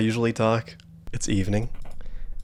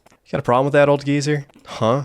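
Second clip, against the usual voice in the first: louder and higher, picking a fight; tough-guy snarl; 4 semitones higher, 3 dB louder than usual. Acted. Young resident snapping back at the nosy old neighbour, angrily. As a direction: square up to the old man. Player chose the angry face.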